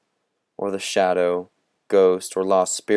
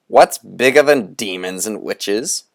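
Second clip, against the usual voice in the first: put-on lightly raised, theatrical old conjurer; Moundstrout's showman voice; 5 dB louder than usual. Old conjurer teasing the boys from a cloud, theatrical. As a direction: relish the riddle like a sly ringmaster.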